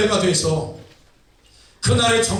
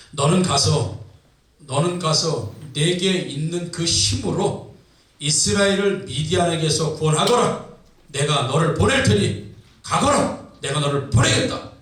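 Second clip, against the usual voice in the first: lightly voiced solemn command, lower in pitch; God; 5 semitones lower than usual. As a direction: commission a servant with measured authority. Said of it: "하나님께서 기도원에게 이렇게 말씀하십니다". (낮고 엄숙하게 명하는 연기)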